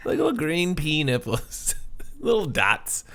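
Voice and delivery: high, squeaky laughing speech; laughing hard. Real, not acted. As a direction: talk through a fit of giggles. Laughing at David Spade joke.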